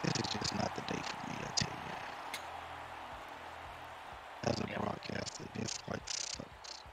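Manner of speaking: glitchy robotic mic; robotic voice through a broken mic. Real, not acted. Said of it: "Everybody said that my mic sounds robotic".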